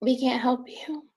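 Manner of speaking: slow hushed quote; slow whisper. Retold or imitated. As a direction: whisper it slowly, drained. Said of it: "and they said".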